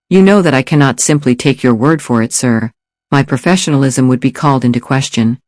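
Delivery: put-on polite, near-perfect English accent. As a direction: speak like a well-mannered English assassin. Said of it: "the near-perfect English accent".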